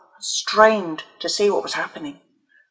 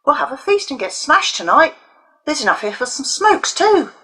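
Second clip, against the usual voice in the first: gloating; 8 semitones higher, 3 dB louder than usual. A narrator's reading. Bully gloating over stolen money.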